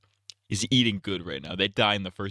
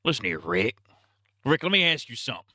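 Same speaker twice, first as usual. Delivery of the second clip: a hint of confronting Shane; lightly voiced Shane; 3 semitones higher than usual. Shane confronting Rick over Lori, lightly voiced impression. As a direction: lightly put on Shane challenging his friend. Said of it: "he'd be like".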